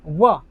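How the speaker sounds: व said alone with teeth on lip; sound व. Shown as a demonstration. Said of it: "तो इसको बोलते हैं व".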